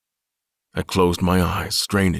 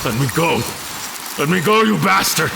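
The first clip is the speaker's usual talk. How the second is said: higher and louder, furious struggle; desperate angry yell; 10 semitones higher, 3 dB louder than usual. Acted. Captured admiral screaming at his captor. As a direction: fight to break free, shouting.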